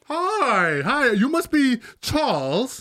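put-on slow New Mexican accent greeting; light New Mexican accent, drawn out. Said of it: "Is that a New Mexican accent?".

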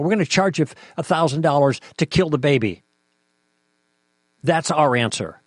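impassioned, indignant challenge; worked up, pressing the point with mock quotes of the other side; real heated argument; emotional. Real, not acted. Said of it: "Pardon me for getting emotional about this".

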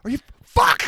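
cop voice. Retold or imitated. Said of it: "he's like".

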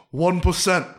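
Bernie. Shown as a demonstration. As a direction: do the old senator's delivery as a bit. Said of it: "here's my impression of Bernie".

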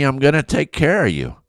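hushed whisper of divine reassurance; whispered promise. Retold or imitated. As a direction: breathe the promise gently. God's gentle reassurance retold.

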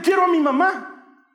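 put-on high, loud, drawn-out childish wail; hammed-up desperate cry of a little boy; wailing for mum. Embarrassed boy asking for his mother, wailing shout.

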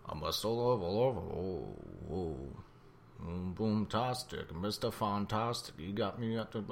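raspy reach for a singer's voice; a hint of the singer, softly; singer impression. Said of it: "make your voice a little raspy".

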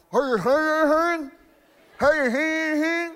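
high excited calls of hey; mock wife calling out. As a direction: call out to him, high and bright. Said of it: "she's like".

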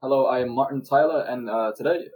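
British commentator introducing himself; mock British broadcast voice; British accent. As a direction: put on a proper British accent. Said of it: "Do a proper British accent".

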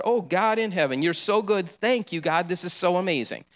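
joyful praise. Retold or imitated. Mother praising over groceries.

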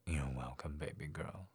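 soft and low, smiling; with a smile. A narrator's reading. Daddy at the door to his sleepy girl, smiling. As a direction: smile it gently to her. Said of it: "Daddy stated with a smile".

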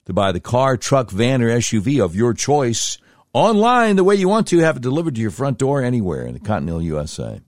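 rapid-fire commercial disclaimer; fast ad read. Acted. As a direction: rattle off the ad copy quickly.

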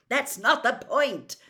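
slow, loud, high angry shout; furious outburst; raging. A narrator's reading. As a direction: rage at them, each word drawn out. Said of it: "raged Mister Weasley".

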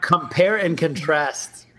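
spelled out slowly; helpful slow prompt; slow, careful correction. Shown as a demonstration. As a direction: say it slowly and clearly. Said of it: "how do you say that?".

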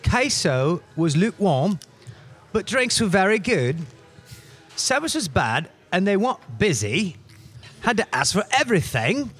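a badly faked British accent, lightly voiced; mock British reviewer, half-hearted accent. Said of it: "me trying to do a British voice".

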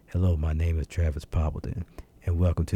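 lightly imitated co-host's put-on radio voice; Travis Poppleton. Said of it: "Travis changes his voice when he comes on".

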